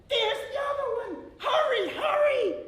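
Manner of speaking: very high, loud laughing yell; mock farmer scream. Second coyote mimics the farmer, high laughing shout. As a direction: ham up the farmer's panic, laughing.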